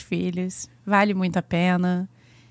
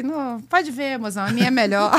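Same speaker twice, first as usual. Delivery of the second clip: laughing self quote. Retold or imitated. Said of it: "eu falei".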